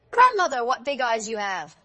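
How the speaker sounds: very high, loud opening exclamation; amazed. A narrator's reading. Girl marvels at grandmother's eyes, high loud amazement. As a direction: burst out high on her name.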